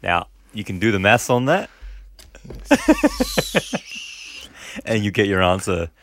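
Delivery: criminal voice. Pretend. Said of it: "why am I doing his voice?".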